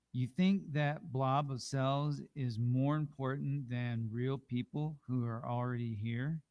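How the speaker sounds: challenging objection. Acted. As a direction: push back like a skeptic.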